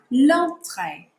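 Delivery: l'entrée slow, nasal en then tray; slow model. Shown as a demonstration. Teacher slowly says l'entrée for the students. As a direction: draw out l'entrée for the class. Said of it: "We have a h sound here".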